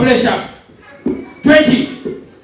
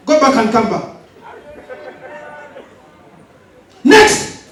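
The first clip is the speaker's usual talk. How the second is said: drill sergeant; slower than usual. Acted. Recruiter role continues.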